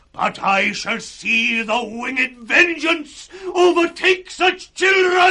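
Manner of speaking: building furious curse; rising curse. Acted. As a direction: let the curse swell to a cry. Gloucester curses his captors.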